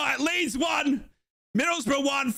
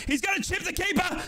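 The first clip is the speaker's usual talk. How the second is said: high urgent commentary; tense live call; 5 semitones higher, faster than usual. Real, not acted. Commentator watches Leeds attack the goal, urgent. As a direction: voice rising with the danger.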